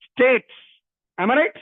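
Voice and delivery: normal talking voice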